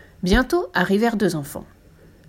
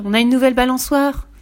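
much higher and louder shout; children's delighted cry; 5 semitones higher, 5 dB louder than usual. A narrator's reading. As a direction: shout with joy at the new swing. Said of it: "crièrent-ils". (les enfants crient de joie devant la balançoire)

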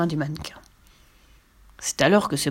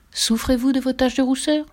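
higher, evenly announced question; placard read aloud; 6 semitones higher than usual. A narrator's reading. Child reads the placard to Fifi, higher announcing question. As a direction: read the sign out to a friend.

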